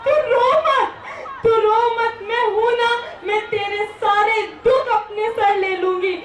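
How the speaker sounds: put-on high, tearful child's plea; a small daughter begging her mother not to cry, voice breaking; little girl crying. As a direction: comfort her mother through her own tears. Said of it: "माँ को रोते हुए देख वो बच्ची बोलती है".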